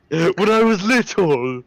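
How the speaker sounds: slow, throat-squeezed raspy demo; raspy low voice. Shown as a demonstration. Friend showing how to voice the old character, raspy voice. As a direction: squeeze the throat and drag it out raspily. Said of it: "squeeze the back of your throat and do a raspy low voice".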